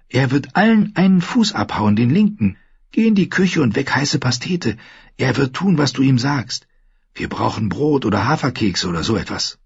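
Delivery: put-on high, urgent girl's voice; high-pitched, pressing warning; insistent girl. A narrator's reading. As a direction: warn him in a high young voice.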